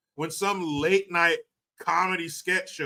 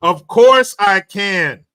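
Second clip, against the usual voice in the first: Chinese accent; 5 semitones higher, 11 dB louder, much slower than usual. Shown as a demonstration. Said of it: "in your Chinese accent".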